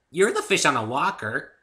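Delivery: high, loud cheerful pony; silly mix-up said with glee; bubbly Pinky voice. A narrator's reading. Pinky mangles an idiom to the narrator, high and loud.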